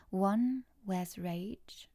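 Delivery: slow, hushed delivery; dramatic reading. Pretend. Streamer reading a viewer's poem, slow and hushed. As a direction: read it slow like a dark poem. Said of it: "my best audible voice".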